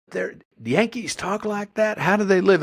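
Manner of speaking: high-pitched, hammed-up disbelief; incredulous questioning. Local aghast at how Yankees talk, incredulous.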